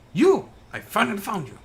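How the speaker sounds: a sudden high furious shout. Acted. Villain finally corners the hiding lawyer, shouting. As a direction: yell it out as you finally corner him.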